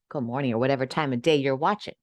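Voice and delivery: talking between sips; drinking while talking; sipping hot tea. Real, not acted. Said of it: "Sorry for the slurp".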